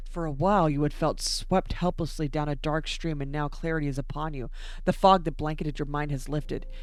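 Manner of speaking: measured reading, softening at the end; story narration. Acted. Player reading a sanity event aloud, measured narration. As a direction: start firm, let the last lines drop.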